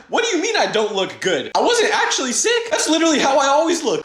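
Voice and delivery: half-laughing, half-yelling in disbelief; laughing outrage. Real, not acted. Kid insulted by teacher, laughing indignant yell.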